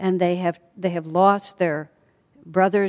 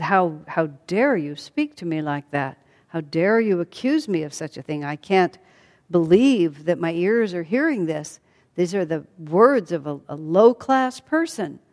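indignant. Acted. Sita rebuking her husband Rama for doubting her, indignant. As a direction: push back hard, offended and disbelieving.

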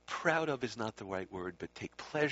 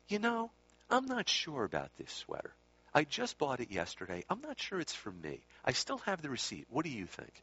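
unsure; 5 semitones higher than usual. Acted. Someone sincerely asking opinion of sweater.

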